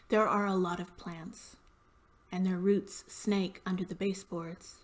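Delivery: measured poetry reading with pauses between images; poem reading. Acted. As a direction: read the poem aloud, phrase by phrase. Reads own poem aloud.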